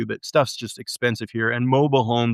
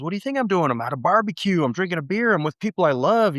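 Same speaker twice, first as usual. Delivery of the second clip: imitating brother; 6 semitones higher than usual. Brother voiced in retelling.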